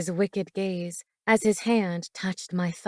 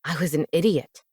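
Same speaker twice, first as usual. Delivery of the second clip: low regretful man's voice; 3 semitones lower than usual. Acted. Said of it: "he acknowledged".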